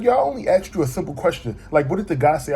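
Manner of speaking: retold irritated retort. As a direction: argue back, as in a retold spat. Acted quarrel with his friend.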